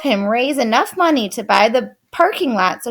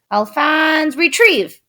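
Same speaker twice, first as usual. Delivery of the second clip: command; 6 semitones higher than usual. A narrator's reading. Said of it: "Louis would say".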